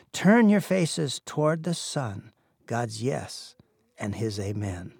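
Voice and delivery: slow, measured reading of a hymn poem; solemn poetry recitation, lingering on the words. Shown as a demonstration. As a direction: read each line slowly like a sung prayer. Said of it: "but I can read the words".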